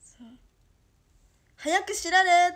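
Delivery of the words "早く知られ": mock command. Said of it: "とか".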